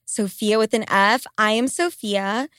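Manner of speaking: congested, stuffy voice; blocked nose. Real, not acted. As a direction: speak through a head cold. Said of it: "I know I sound congested as fuck".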